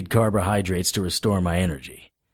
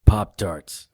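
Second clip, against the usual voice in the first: Pop-Tarts repeated in clear louder voice; 4 dB louder than usual. Acted. Hero repeats his request to the mother, clearly and louder. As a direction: say Pop-Tarts again so she hears.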